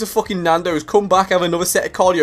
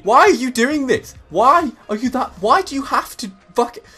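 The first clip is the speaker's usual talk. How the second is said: higher-pitched, emotional pleading; worked-up exasperation; 6 semitones higher than usual. Pretend. Gym-goer protesting to the man who interrupted him, worked-up and exasperated. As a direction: get worked up, demanding an explanation. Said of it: "I'm getting so emotional".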